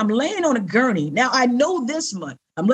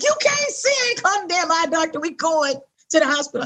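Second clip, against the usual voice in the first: much higher, incredulous and bossy wife; insistent wife; 5 semitones higher than usual. Retold or imitated. Wife overruling her husband about the eye doctor, high insistent. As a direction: overrule him, no arguing.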